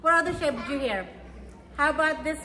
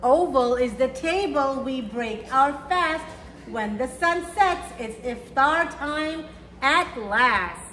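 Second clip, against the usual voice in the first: gentle rhyming storybook read; reading to children; slower than usual. A narrator's reading. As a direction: read it slowly to little kids, savouring each rhyme. Reads picture book to children.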